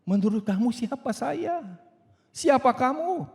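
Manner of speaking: high challenging retort; pointed retort. Acted. Someone in a discussion retorting sharply. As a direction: fire the question back. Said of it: "saudara kira-kira pikir apa".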